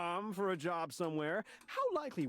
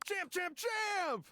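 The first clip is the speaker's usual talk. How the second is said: excited greeting; much slower than usual. Acted.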